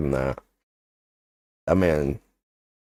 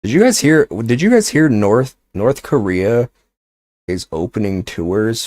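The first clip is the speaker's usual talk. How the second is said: excited; 5 semitones higher, 6 dB louder than usual. Real, not acted. Excited news blurt.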